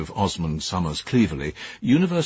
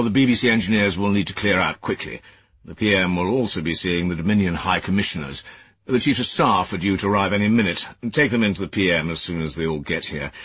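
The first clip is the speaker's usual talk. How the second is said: stern superior. Acted. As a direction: scold like a disapproving senior official. Cleverley gives orders.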